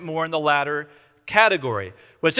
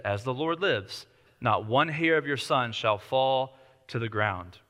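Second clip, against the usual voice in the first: slow, softer, lower oath; solemn oath; 5 semitones lower, 4 dB quieter, slower than usual. Retold or imitated. King swearing the widow's son is safe, solemn. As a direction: swear it gravely and slowly.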